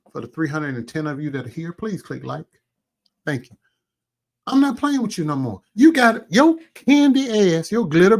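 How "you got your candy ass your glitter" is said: angry shout. Real, not acted. Angry rant at rival.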